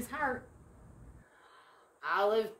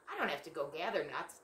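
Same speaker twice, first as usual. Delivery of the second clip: talking fast; 4 semitones lower, faster than usual. Acted. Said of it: "that squirrel can talk really fast".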